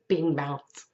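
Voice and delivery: hiccup breaking into the words; speaking through a hiccup. Real, not acted. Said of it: "got the hiccups".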